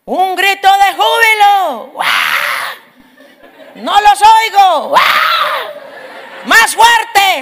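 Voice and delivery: a cheering worship leader whipping up a shouting congregation. Retold or imitated. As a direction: pump up the crowd like a praise leader. Imitating an evangelical worship leader.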